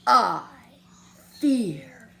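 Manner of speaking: hushed, whispered bravery; very soft voice. Acted. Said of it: "in a muy, muy soft voice".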